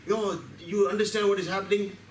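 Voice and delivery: high, pushy mock cell voice, lightly done; angry cells' voice. The angry body cells warn the tobacco chewer, voiced high and indignant. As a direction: cells confronting their owner, high and indignant. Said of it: "come together and say".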